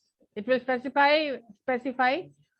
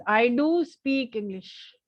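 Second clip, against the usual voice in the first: "do" stretched in a slow, deliberate sentence; stress on "do"; much slower than usual. Shown as a demonstration. Teacher asks class what this sentence means, "do" stressed. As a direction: draw out "do" for emphasis. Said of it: "you are emphasizing on the word do".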